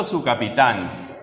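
slow "capitán" leaning on its last syllable; stress on TÁN in "capitán". Shown as a demonstration. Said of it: "Tan, tiene tilde". ("capitán" lento, marcando la sílaba TÁN)

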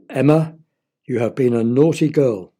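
a hint of a stern father, loud. Father scolding Emma for ringing bells, mock stern. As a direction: scold her like a cross dad. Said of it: "went her father".

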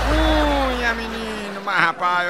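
high drawn-out opening call; signature call. Acted. Comedian opening a joke with his catchphrase, high and drawn out. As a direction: belt out the show's catchphrase.

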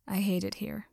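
breathy weary sigh. Acted. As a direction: sigh it out, fed up. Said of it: "Hitoshi sighed".

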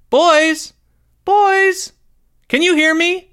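very high, loud mom voice; mother calling out. A narrator's reading. Mother calling to boys in trailer, shouting.

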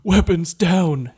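gasping frog order. Acted. Hyperventilating frog captain orders his soldiers, panicked gasping shout. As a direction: wheeze out the command between gasps.

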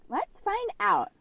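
very high, drawn-out mock excitement; playful high echo. Repeating the transition line back to co-host, playfully high-pitched.

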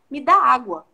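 commanding tone. Retold or imitated. Jesus speaking to the woman at the well, firm command. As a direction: demand it plainly. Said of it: "Mas o tom que ele fala".

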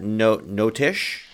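"note" fumbled into "notish" as a joke; joking mispronunciation. Pretend. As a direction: playfully stumble from "note" to "notish". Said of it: "I don't know how you pronounce note".

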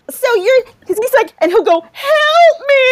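high, loud, laughing through the words; helpless tearful laughter; squealing with laughter; crying with laughter. Real, not acted.

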